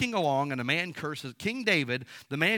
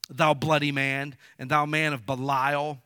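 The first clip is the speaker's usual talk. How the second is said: mock curse; 7 dB louder than usual. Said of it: "thus said Shimei when he cursed".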